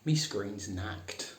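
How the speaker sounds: slow, blunt Northern "Me screen's knacked"; broad Northern "knacked" said slowly. Shown as a demonstration. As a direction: grumble it flat in broad Northern. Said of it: "Best to say".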